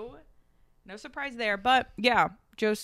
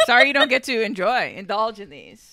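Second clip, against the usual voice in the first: loud teasing; 3 semitones higher, 9 dB louder than usual. Retold or imitated. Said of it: "I'm like".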